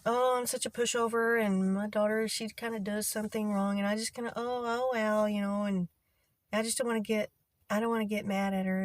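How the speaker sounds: lightly mocking a self-pitying mother; mock pushover. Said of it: "she had made statements before".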